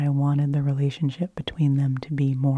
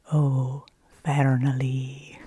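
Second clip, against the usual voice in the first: lightly voiced Scottish owl, a little louder; Scottish-accented owl; 4 dB louder, much slower than usual. GM voices the owl greeting Fernley, light Scottish accent. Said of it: "said her name with this accent".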